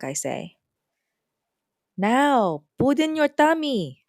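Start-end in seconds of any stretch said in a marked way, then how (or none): 2.0-4.0 put-on high, loud, fussing old grandmother; grandma serving a plate at ten o'clock; bossy grandma. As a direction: order the food into her tummy. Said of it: "she says".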